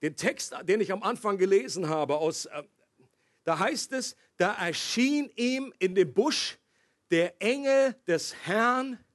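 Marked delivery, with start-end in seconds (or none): 4.4-9.0 very slow, phrase by phrase; solemn scripture reading. Acted. Preacher reads the burning bush text to the congregation, solemn. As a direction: read it out weightily, with spaced words.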